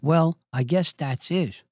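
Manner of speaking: slow, mildly put-on resignation; lightly imitated false modesty; false humility. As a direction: feign humble acceptance, unhurried. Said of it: "it's like false humility he was saying this".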